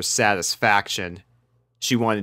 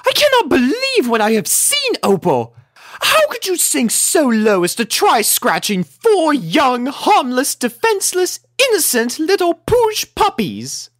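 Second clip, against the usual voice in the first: high, loud indignant dressing-down; shrill-free but very high and loud lady's rebuke; severe scolding; 5 dB louder than usual. A narrator's reading. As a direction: lay into the cat, outraged and grand. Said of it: "talking to Opal severely".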